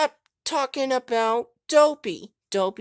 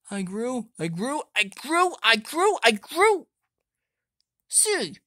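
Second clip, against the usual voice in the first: lightly lowered big toy voice; 3 semitones lower than usual. Acted. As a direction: speak like a grown-big toy. Deep growing giant voice.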